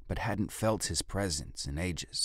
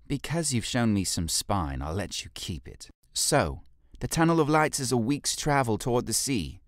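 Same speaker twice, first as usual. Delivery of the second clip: much higher, louder stern orders; commanding leader; 7 semitones higher, 5 dB louder than usual. Acted. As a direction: command the guard to go. Jolie rewards candour.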